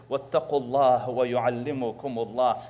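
rapid recited Arabic verse, run together; Quran recitation. Acted. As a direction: rattle off the verse in one breath.

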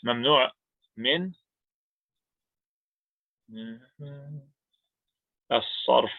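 Mamnu' min as-sarf, slowly in Arabic sounds; each word spelled out in Arabic; careful Arabic pronunciation. Shown as a demonstration. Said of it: "I'm gonna write it out here".

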